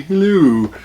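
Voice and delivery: a lightly voiced cartoon baby hello; Stewie greeting. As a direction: toss off a quick Stewie-style hello. Stewie catchphrase after naming Stewie.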